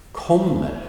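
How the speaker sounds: Kommer said high and firm with a falling tune; stressed kommer. Shown as a demonstration. Teacher isolating the stressed verb for students. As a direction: give kommer full weight on its first syllable. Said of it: "Key main verb".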